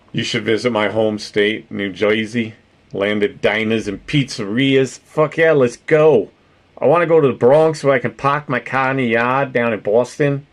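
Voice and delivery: put-on New Jersey-Bronx-Boston accent; mock Jersey accent. Streamer showing off a home state, mock Jersey accent. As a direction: ham up a loose East Coast Jersey accent. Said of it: "talk like this".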